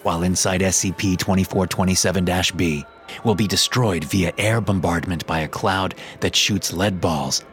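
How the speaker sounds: measured, formal report reading; steady archive report voice; document read. Acted. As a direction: read it like a clinical file entry. Reads the SCP document.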